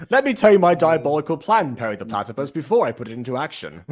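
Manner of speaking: hammy villain monologue; megalomaniac rant. Pretend. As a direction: announce your evil plan grandly. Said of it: "I like to villain monologue".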